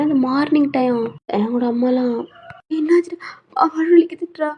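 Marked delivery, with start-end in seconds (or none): 2.7-4.5 tearful. Acted. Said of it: "அழுகுறான்".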